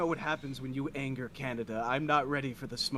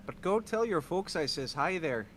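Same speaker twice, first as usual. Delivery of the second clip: mock Midwestern accent. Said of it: "talk just like your accent".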